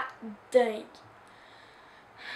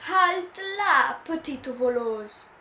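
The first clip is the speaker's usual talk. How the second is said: angry shout; 2 semitones higher, 5 dB louder, slower than usual. Acted. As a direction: stop the thief in her tracks. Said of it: "crie Monsieur Pomodoro".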